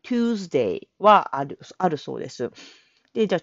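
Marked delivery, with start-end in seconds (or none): 0.0-0.9 Tuesday drawn out very slowly with a u glide; slow American Tuesday, u sound added; tyuesday with u. Shown as a demonstration. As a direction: stretch Tuesday slowly as tyu-esday. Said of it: "Uを入れるトゥ".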